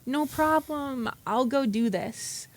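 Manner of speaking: high, drawn-out easygoing quote; imagined agreeable reply. Retold or imitated. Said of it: "I figured she was gonna say".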